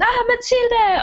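high, slow excited call of her name; crowd calling out. Acted. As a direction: call out like fans spotting a star. Crowd calls to Mathilde.

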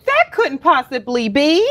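high-pitched feigned incredulity; mock disbelief. Mock disbelief at whistleblower cover-up.

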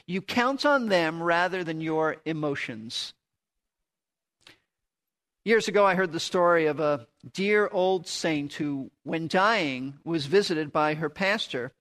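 ordinary talk

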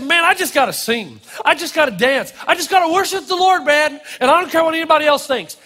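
can't hold it in; building enthusiasm, speeding at the end; eager passion. Retold or imitated. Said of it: "he just said".

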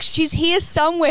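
high, excited squeal. Retold or imitated. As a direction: gasp it out like an eager fan. Excited fans quoted.

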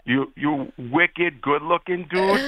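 slow, drawn-out Boston talk; lazy Boston accent. Shown as a demonstration. Boston fan complimenting his pupil, in lazy Boston accent. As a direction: stretch it out lazily, Boston style. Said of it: "Just be lazy".

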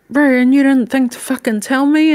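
high and loud, accusing; indignant demand. Retold or imitated. Confronting her partner for hiding the pregnancy: high, accusing. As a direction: throw the accusation right at him. Confronting him over the secret.

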